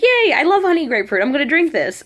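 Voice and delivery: high, loud, gleeful cheer; excited delight. Retold or imitated. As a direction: act out being thrilled by a treat. Acts out delight at finding drink.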